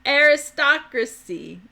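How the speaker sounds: Aristocracy said slowly, syllable by syllable; careful Aristocracy. Shown as a demonstration. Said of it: "I don't know how to say it".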